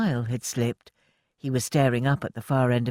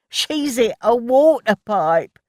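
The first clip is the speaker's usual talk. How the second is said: yelling; 8 semitones higher, 7 dB louder, slower than usual. A narrator's reading. Ted shouting the alarm to the others, loud yell. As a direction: shout the alarm across the yard. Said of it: "Ted yelled".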